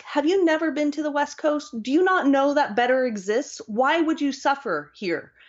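high-pitched exasperated pleading, without real shouting; mock yelled rant. Freezing West Coaster wants to ask everyone here, mock-exasperated rant. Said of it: "I want to yell that at everyone".

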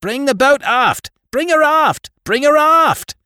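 very high, loud roared orders; captain roaring for his men to bring the boat. A narrator's reading. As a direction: bellow it across to the boat. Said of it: "he was roaring for the men in the boat".

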